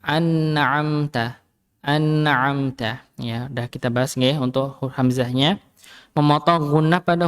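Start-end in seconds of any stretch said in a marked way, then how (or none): 0.0-3.0 slow, chanted "an'amta"; careful recitation. Shown as a demonstration. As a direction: draw out "an'amta" slowly as a model reading. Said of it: "pada lafaz". ("an'amta" dilafalkan pelan)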